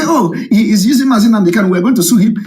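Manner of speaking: a light, sneering impression of critics; mocking imitation. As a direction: parody an opponent's empty threat. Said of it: "They say".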